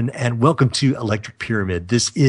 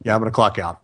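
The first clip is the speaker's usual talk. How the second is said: silly, amused; 2 semitones lower, faster than usual. Real, not acted. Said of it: "I feel a little silly tonight".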